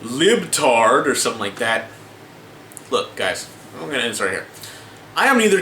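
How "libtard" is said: mock critic. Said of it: "some people might watch the video and go".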